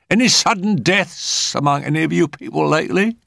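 high-pitched, probing question; high medium voice, fishing for news; inquisitive medium. A narrator's reading. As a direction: ask it in a high character voice.

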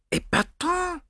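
a light murmured French exclamation; soft Gallic murmur. A narrator's reading. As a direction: breathe it out, softly amused. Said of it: "murmured Poirot".

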